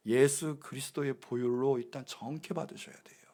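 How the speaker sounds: hushed, breathy whisper. Acted. Pastor teaching the congregation, dropping to a whisper. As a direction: lean in and whisper it like a secret.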